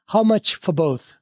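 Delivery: very slow How much for both, words joined; slow teacher model; slow linked model. Shown as a demonstration. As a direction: spell it out slowly and smoothly. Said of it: "आवाज़ ... अगले word के साथ मिला दिया".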